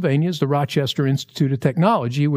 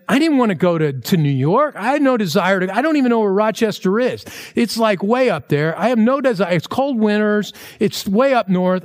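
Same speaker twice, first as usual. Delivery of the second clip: higher-pitched, mildly upset protest; retold near-tearful complaint; 5 semitones higher than usual. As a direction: plead a reluctant case, imitating near tears. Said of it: "almost in tears, looking at Cindy saying".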